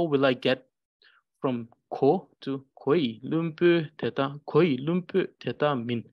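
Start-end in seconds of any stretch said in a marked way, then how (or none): 3.2-6.0 each syllable clipped apart; one syllable at a time, no flow; syllable reading. Shown as a demonstration. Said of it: "I'm only thinking about each syllable".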